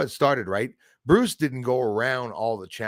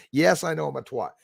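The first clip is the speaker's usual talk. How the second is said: usual speaking voice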